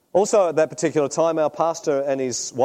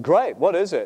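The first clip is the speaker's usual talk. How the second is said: mildly excited retold reply, higher pitched; lightly acted keenness; eager; 5 semitones higher, 4 dB louder than usual. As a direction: jump at the news with a touch of eagerness. Retold eager reply to job news.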